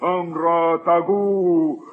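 mock chant sliding up into babble; baby talk. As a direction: gabble like a baby. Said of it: "baby talk".

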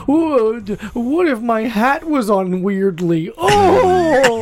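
mock silly comedy bit; mocking alt comic. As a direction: send up a precious alt comedian, drawn out. Mocks alt comedy bits.

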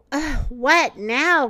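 slow, sleepy grumble; grumbling. Acted. Sleepy Owl woken by Thumper, slow grumble. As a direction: drag it out, half awake and annoyed. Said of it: "grumbled Owl".

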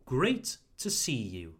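"great" and "you" stressed. Shown as a demonstration. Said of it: "put the emphasis on great and you".

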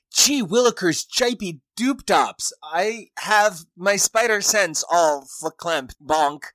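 high, loud, slow golly-gee fifties sitcom voice; goofy Spider-Man. Retold or imitated. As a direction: ham up a corny old-timey hero. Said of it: "he'd be like".

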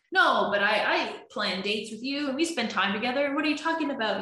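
you feel attacked, defend yourself; defensive protest. Retold or imitated. Partner denying he neglects dates, indignant and rising.

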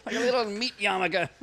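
loud, high, laughing; laughing doctor. Pretend. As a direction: cackle at the gruesome joke.

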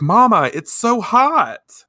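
put-on a scared little girl in the fire; child's plea. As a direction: daughter crying to her mother in flames. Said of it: "And Hataru's like".

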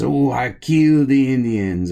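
mock panicked yell. Pierre freaks out over his wife's note, mock panicked yell. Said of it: "He says".

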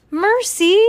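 high, loud cry of the name; exclaiming. A narrator's reading. Baby crying out at the pig, exclaiming.

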